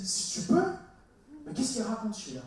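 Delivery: mock-offended question, high then dropping; offended retort. Jesus answering the father's doubt, played as offended. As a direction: imitate a mildly affronted comeback. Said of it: "profondément offensé et qu'il a dit".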